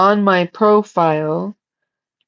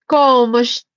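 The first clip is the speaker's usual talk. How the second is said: higher-pitched attempt at an Italian accent; Spanish greeting with a bad Italian lilt; poor Italian accent; 5 semitones higher than usual. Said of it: "I'm channeling Italian poorly".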